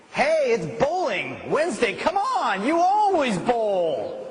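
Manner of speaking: high, loud, slow pleading invitation; coaxing friend. Retold or imitated. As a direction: lure them back to bowling. Tempting friend voiced.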